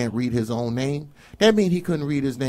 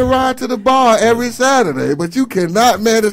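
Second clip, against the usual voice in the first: heated rant; 8 semitones higher, 7 dB louder than usual. Real, not acted. Ranting at absent parents.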